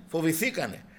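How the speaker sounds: usual speaking voice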